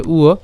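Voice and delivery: "উয়" sounded as u-o; pronunciation demo. Shown as a demonstration. Teacher answers how antastha ba sounds, "উয়" as u-o. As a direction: say "উয়" as a u gliding into o. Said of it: "তার উচ্চারণ কেমন হবে?".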